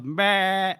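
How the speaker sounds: imitated goat bleat, drawn out. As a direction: bleat briefly like an unimpressed goat. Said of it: "how the goat takes this moment".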